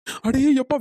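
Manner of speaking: a loud startled gasp of alarm; shocked cry. Acted. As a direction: cry out as the water floods in. Flood water entering the house. (அதிர்ச்சியுடன் உரத்த கூச்சல்)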